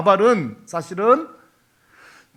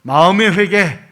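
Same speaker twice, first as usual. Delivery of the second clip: call and response; 6 dB louder, slower than usual. Shown as a demonstration. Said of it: "한번 따라 하실래요?".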